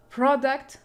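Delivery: "product" with the first syllable stressed. Shown as a demonstration. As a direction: lean on PROD in "product", lighter ending. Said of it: "Every English word has primary stress".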